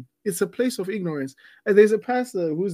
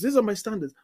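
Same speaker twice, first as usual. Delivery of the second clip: insistent; 4 semitones higher, faster than usual. Retold or imitated. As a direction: press the point home again. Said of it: "you're going like".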